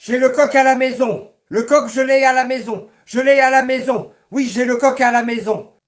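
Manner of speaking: insistent loud claim. Acted. Insisting he has the rooster.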